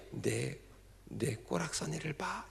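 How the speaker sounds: soft, slow "내 꼬락서니를 봐"; mock disgust. Shown as a demonstration. Pastor showing the wrong, scornful meaning, quiet. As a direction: sneer at yourself. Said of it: "이런 뜻이 아니에요".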